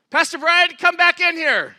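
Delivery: loud, high holler for the pastor; yelling out. Retold or imitated. Upset husband calls the pastor back in, yelling out. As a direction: yell it across to another room, drawn out. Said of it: "So Bob yells out".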